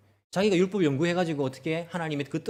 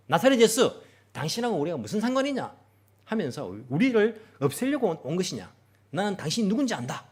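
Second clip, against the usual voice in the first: demon shouting; 4 semitones higher, 3 dB louder than usual. Acted. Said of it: "큰 목소리로 외치는 겁니다".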